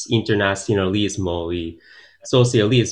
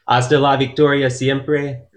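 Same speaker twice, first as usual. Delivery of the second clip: rallying slogan; 4 semitones higher than usual. Real, not acted. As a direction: proclaim the slogan with gusto. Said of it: "¿qué más?".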